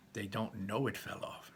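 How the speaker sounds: soft unvoiced whisper; whispered aside. Real, not acted. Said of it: "conspiratorial aside".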